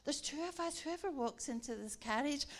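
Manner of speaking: loud, building rallying declaration; excited proclamation. Retold or imitated. Preacher to her colleague on the train, excited proclamation. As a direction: proclaim it with a punchy, emphatic burst.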